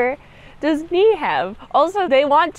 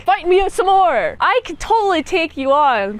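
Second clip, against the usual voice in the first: defiant knight; 4 semitones higher than usual. Retold or imitated. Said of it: "this guy is like".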